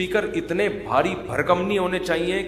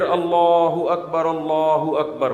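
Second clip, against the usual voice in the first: slow but brief اللہ اکبر; measured call to prayer; short azan demo; much slower than usual. Shown as a demonstration. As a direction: show the right short call. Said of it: "مختصر، مختصر".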